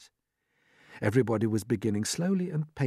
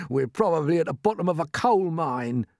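higher-pitched grumble; gloomy earthworm; 6 semitones higher, 4 dB louder than usual. A narrator's reading. Earthworm expecting the worst, gloomy grumble. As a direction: grumble it as a pessimist. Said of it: "the earthworm said gloomily".

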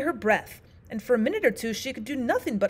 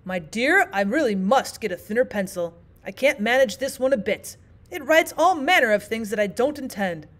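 panting; 4 dB louder than usual. Acted. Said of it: "at last he panted out".

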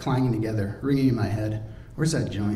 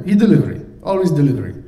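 lightly voiced Drago; 4 semitones higher, 8 dB louder than usual.

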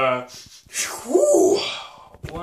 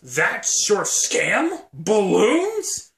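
incredulous; 6 semitones higher, 8 dB louder, much slower than usual. Acted. Reacting to the balloon scam.

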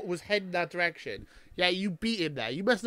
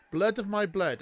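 repeating the line Blood louder and with more weight; echoing the Dothraki line; 5 semitones higher, 3 dB louder than usual. Shown as a demonstration. Echoing the queen's speech, mock solemn. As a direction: intone Blood of my blood like a vow. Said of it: "I'm gonna try and translate".

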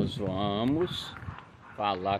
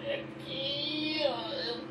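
high-pitched pointing. Real, not acted. Pointing out the elevator button.

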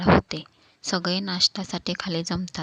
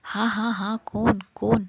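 startled awake; 3 semitones higher, 3 dB louder than usual. Acted. Woken suddenly from sleep.

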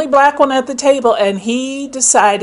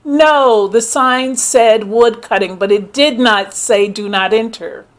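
raised, pointed comeback; firm retort. Retold or imitated. To the yelling man, a firm raised retort. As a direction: set him straight, emphatic. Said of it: "I looked at him and I said".

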